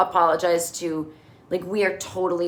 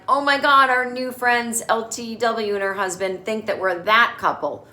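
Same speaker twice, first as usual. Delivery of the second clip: mock alarm. Charlotte and Harry caught fighting.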